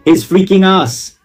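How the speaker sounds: high and slow, in disbelief; his freaking ass, high and stretched; shocked outburst. Real, not acted. Shocked reaction to the confession.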